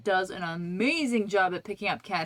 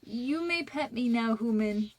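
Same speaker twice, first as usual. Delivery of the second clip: lightly voiced haughty cat; a hint of a snooty cat granting permission; snooty bored cat. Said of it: "hops in my lap and says".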